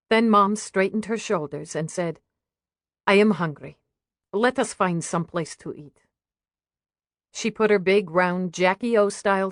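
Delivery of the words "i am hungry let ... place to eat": lightly voiced mother with a Russian accent; a touch of Russian accent in careful English. Mother announces she wants to eat, lightly Russian-accented. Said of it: "Is that a Russian accent".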